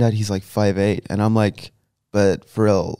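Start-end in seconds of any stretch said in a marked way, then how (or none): 2.1-3.0 put-on dismissive girl quote, slowed; imitating her. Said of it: "the way you said it as well was perfect".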